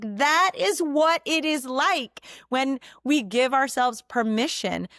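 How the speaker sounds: earnest explaining. Retold or imitated. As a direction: spell it out gently for the family. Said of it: "I was like".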